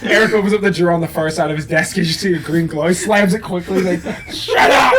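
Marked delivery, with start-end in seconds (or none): 4.3-4.9 high-pitched yell with laughter; mock panicked shout. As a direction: imitate someone frantically silencing a secret. Eric slams drawer, silences it.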